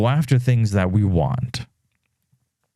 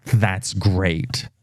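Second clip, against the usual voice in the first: mock flat "that's great"; 2 semitones lower than usual. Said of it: "I'm like".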